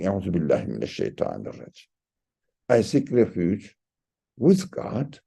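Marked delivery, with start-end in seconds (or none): 0.0-1.9 rushed low recitation, words running together; rattled-off formula. Retold or imitated. Teacher showing how believers recite it without thinking, rushed and low. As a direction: rattle it off like a habit. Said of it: "we keep saying".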